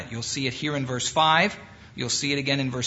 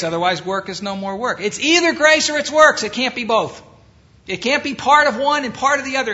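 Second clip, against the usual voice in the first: rising, much louder and higher, hammering each point; preaching at full force; 7 semitones higher, 6 dB louder than usual. Acted. Preacher insisting to his class that grace excludes works, loud and high. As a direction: build it up and drive it home like a revival preacher.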